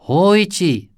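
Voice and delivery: high, loud savage yell; a savage ghostly shout of Hoichi. A narrator's reading. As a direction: roar his name savagely.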